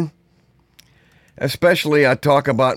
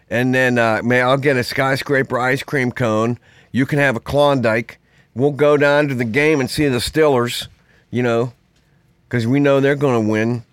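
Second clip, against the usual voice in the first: put-on friendly Pittsburgh accent, inviting a buddy out; hammed-up Pittsburgh accent. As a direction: lay on the Pittsburgh accent like a local planning the weekend. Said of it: "A real Pittsburgh accent is like".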